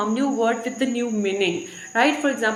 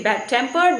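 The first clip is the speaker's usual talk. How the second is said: "bad-tempered" with the weight on tempered; stress on TEMPERED. Shown as a demonstration. Teacher recapping the word alone, stress on tempered. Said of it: "is on the tempered".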